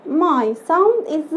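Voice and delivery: very slow teaching voice; slow drawn-out demo. Shown as a demonstration. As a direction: stretch each word slowly. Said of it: "teacher demo repeated".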